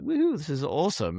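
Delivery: a light woohoo of celebration; excited cheer. Retold or imitated. Host thanking show supporters, excited cheer. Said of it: "a couple and like".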